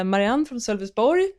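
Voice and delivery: Swedish-accented name and place. Real, not acted. Greeting a viewer from Sweden, Swedish accent. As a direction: switch into Swedish pronunciation for the name and town. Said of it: "that's why I changed the accent there".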